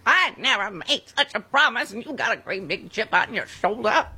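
a hint of old Hollywood lilt; Katharine Hepburn impression. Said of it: "my Katharine Hepburn impression".

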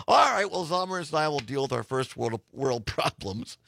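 hoarse, worn-out voice. Real, not acted. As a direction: talk through a scratchy throat. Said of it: "still dealing with a hoarse voice".

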